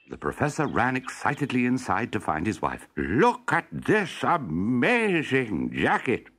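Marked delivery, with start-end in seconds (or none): 3.0-6.3 excited show-off. Acted. Professor excited shows wife.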